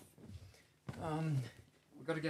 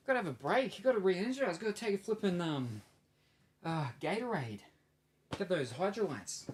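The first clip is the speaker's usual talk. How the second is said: hyped coach voice; 6 semitones higher, 5 dB louder than usual. Pretend. Mock coach pep talk.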